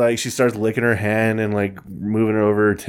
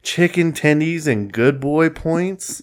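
slow, higher disbelieving outburst; incredulous; 5 semitones higher, slower than usual. Retold or imitated. Retelling his own reaction to the video, incredulous. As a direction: drag out the disbelief. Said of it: "And I was like".

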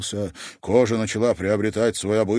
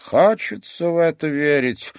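higher, sceptical sensei tone; doubtful; 8 semitones higher, 4 dB louder than usual. A narrator's reading. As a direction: doubt him openly. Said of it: "с сомнением покачал головой".

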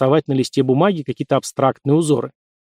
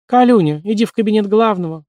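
high bright chirping call; ringing chirp; 7 semitones higher than usual. A narrator's reading. Nurse calling the patient to the office, ringing chirp. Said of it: "звонко прощебетала медсестра".

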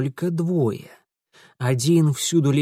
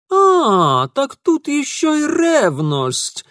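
high, loud, slow realization; discovery; 12 semitones higher, 6 dB louder, much slower than usual. Acted. Ingvar exclaiming at his discovery. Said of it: "сделал новое открытие Ингвар".

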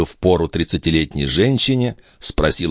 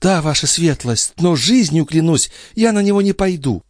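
put-on high young maid's voice; Nicole voice; 12 semitones higher than usual. Maid pleading with the old duke, high girlish voice. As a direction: play the pert young maid.

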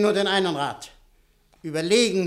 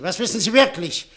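mocking laugh; 4 dB louder than usual. Mocking interrogation, laugh heard.

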